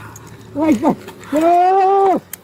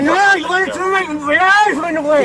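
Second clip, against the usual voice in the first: talking with keys in mouth; words muffled around keys; key in teeth. Real, not acted. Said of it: "What is in his mouth?".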